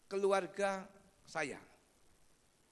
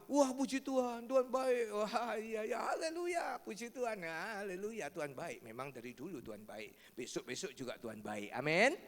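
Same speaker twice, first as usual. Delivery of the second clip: joyful praise; 3 semitones higher, 3 dB louder than usual. Real, not acted. Preacher rejoicing with congregation.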